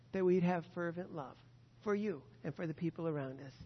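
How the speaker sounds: earnest pastoral prayer voice; closing prayer. Acted. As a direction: pray it reverently for the congregation.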